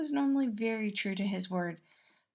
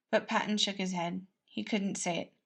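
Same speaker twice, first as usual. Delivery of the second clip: ordinary delivery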